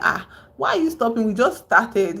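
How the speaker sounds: high, loud baffled shout; baffled outcry. Retold or imitated. Walkers puzzled at Stebbins stopping, calling out baffled.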